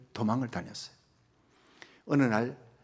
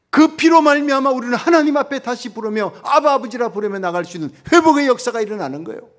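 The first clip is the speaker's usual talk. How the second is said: loud, high, fervent pulpit delivery; full-throated revival preacher; preaching at full force; 9 semitones higher, 12 dB louder than usual. Acted. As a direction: proclaim it to the whole congregation.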